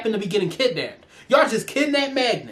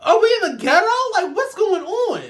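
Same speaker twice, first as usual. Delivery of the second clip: shocked disbelief; 9 semitones higher than usual. Real, not acted. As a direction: gasp at how absurd it is. Outraged disbelief at the school.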